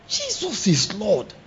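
slow, soft awed murmur; soft shocked gasp. Shown as a demonstration. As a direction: breathe it out slowly in shock. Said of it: "ways I express my shock".

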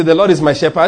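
loud congregational prompt; loud declaration. Shown as a demonstration. Preacher to congregation, leading a loud declaration. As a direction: call it out for everyone to repeat. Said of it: "Let's do it again".

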